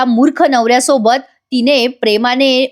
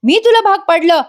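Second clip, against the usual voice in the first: mock angry yell, pitched well up; retold shout; 5 semitones higher than usual. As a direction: imitate the husband shouting back in disbelief. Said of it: "Sachin ओरडून म्हणतो".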